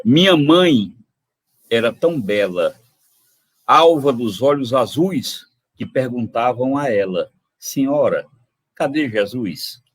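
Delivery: recited with care, gently measured; poem recital. Acted. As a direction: read it like a cherished folk verse. Recita trova do autor. (declamando a trova)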